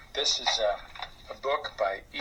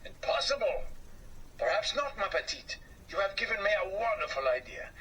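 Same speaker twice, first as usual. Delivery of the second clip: excited idea; 7 semitones higher than usual. Acted.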